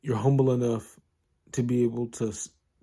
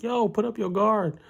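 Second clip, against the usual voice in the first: ringside instruction; 11 semitones higher than usual. Retold or imitated. Takamura shouting advice ringside.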